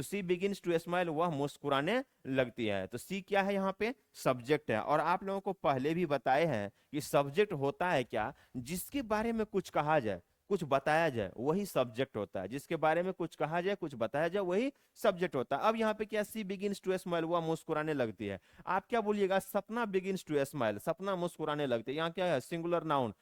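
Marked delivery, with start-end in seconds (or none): 0.0-1.1 slow model sentence. Shown as a demonstration. Teacher reads model sentence. 16.2-17.2 very slow, word by word: She begins to smile; slow dictation. Shown as a demonstration. Teacher reads model sentence. 19.4-20.8 very slow, each word spaced out; slow dictation. Shown as a demonstration. Teacher reads model sentence.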